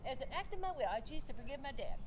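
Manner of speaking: reciting it with no conviction; flippant. Retold or imitated. Daughter vacuuming, reciting her forgiveness line, flippant. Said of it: "It was very flippantly".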